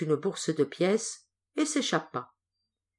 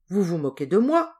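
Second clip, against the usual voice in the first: a slightly louder, indignant outcry; indignant cry; 5 dB louder than usual. Acted. Jack protesting to the stranger, mildly raised indignant cry. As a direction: push it out, offended at the offer. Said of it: "s'écria Jack".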